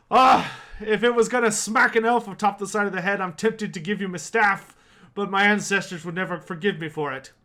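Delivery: loud, booming dwarf after a belly laugh; a loud, jovial dwarf; hearty dwarf. Acted. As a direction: bellow it out heartily. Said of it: "a loud belly laugh".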